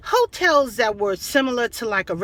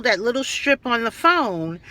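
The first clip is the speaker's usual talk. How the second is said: ordinary delivery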